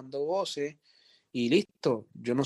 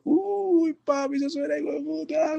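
high-pitched delighted exclamation; thrilled yelp. Retold or imitated. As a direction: squeal with excitement over the take. Thrilled reaction to the ad-lib.

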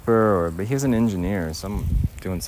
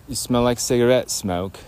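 Forrest Gump; 3 semitones higher, 4 dB louder than usual. Retold or imitated. Friend asks a Southern girl to repeat a movie line, light imitation. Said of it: "trying to say it like Forrest Gump".

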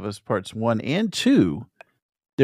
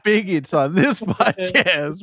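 mock scolding; 8 semitones higher, slower than usual. Piling on in mock bigotry scolding.

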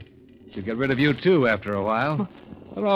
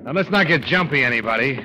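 raised, forceful warning; angry warning; 4 semitones higher, 3 dB louder than usual. Acted. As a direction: take command of the room, fed up. Gunman bursts in, threatens.

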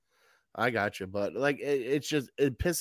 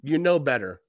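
barely a reprimand, shrugged off; mild scolding. Retold or imitated. Coach to player after a penalty, mild scold. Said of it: "Not just go".

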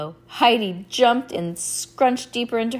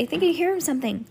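high, quick, nervous line; mildly jittery and hurried; 9 semitones higher, faster than usual. A narrator's reading. Lucy hearing a noise during the story, nervous. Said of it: "she said nervously".

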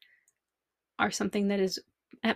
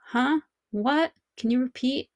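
higher-pitched questioning, mock confusion; imitated puzzled listener; 4 semitones higher than usual. Listeners who keep asking the speaker to repeat, mock puzzlement. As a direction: act out not catching what was said.

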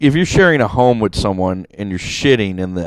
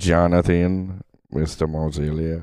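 impression of a player; 3 semitones lower than usual. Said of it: "that's not even it either".

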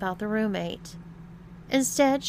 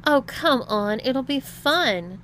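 higher, coaxing lilt; reassuring; 6 semitones higher, 5 dB louder, slower than usual. A narrator's reading. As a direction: coax him, stretching the ending. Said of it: "assured Melissa".

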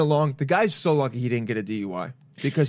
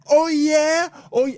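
mock challenge; 11 semitones higher, 5 dB louder than usual. Drunk guy accepts the fight.

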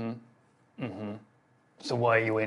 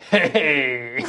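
drawn-out, louder hey; friendlier greeting; 3 semitones higher, 8 dB louder than usual. Acted. Guard trying to reassure a prisoner, put-on friendly hey. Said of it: "let me change my tone slightly".

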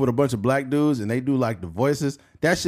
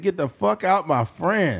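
lightly voiced Middle Eastern clerk; Middle Eastern accent; 4 semitones higher, slower than usual. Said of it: "sorry about the Middle Eastern accent".

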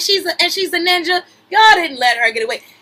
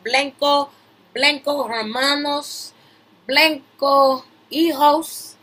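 slow, drawn-out mock Spanish shout-out; much slower than usual. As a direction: stretch it like a joking Spanish shout-out. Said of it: "Shout out to my white boys".

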